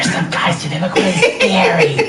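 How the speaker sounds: high-pitched, lightly panicked caller; mock alarmed caller. Caller reporting scary guys to emergency services, mock alarmed.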